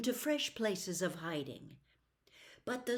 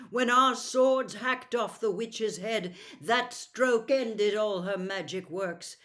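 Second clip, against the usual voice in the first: put-on a proud young prince, louder, scornful; 6 dB louder than usual. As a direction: noble prince grumbling about his captors. Prince answers Puddleglum.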